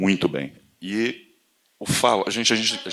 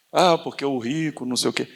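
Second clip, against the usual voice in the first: mock dismissive reply; 7 semitones higher than usual. Mocking opponent's reply.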